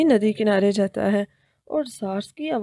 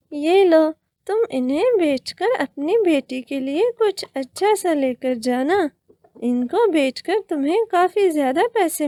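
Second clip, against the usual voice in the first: mermaid voice; 4 semitones higher than usual. Acted. Mermaid gifts diamonds.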